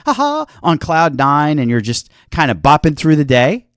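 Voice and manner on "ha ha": mock happy laugh. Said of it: "you're all excited".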